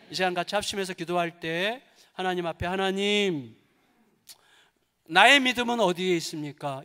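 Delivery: fervent pulpit prayer over music; closing prayer. Acted. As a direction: pray aloud leading the congregation. (음악 위로 간절하게 인도하는 대표기도)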